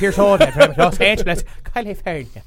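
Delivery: goofy put-on Jamaican accent, laughing; mock Jamaican accent. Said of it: "free Jamaican accents".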